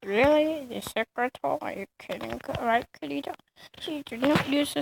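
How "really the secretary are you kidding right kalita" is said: incredulous. Real, not acted. Mocking rival's cringe comp.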